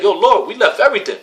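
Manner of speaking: high, loud exasperated plea to the Lord; frustrated Peter. Retold or imitated. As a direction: whine it like a fed-up disciple. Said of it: "He ba-, he got frustrated".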